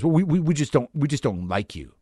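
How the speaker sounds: imitating someone flustered delivering bad news; flustered roommate. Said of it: "and he got all flustered".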